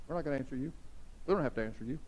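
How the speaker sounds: low, soft, sullen put-on voice; mock the Pharisees' stubborn refusal; sulky Pharisees. Pastor voicing Pharisees refusing to answer Jesus, low and sullen.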